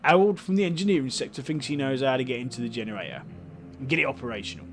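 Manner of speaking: light Cockney councillor voice; a hint of Cockney, welcoming tone; Cockney accent. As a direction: play the councillor with a mild Cockney lilt. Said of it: "he's got a Cockney accent".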